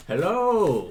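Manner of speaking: loud, high, brash hello; rude greeting. Acted. Beryl walks up rudely to the busy dwarf captain, brash shout. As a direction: barge in with a cheeky hello. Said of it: "rudely walk up to him".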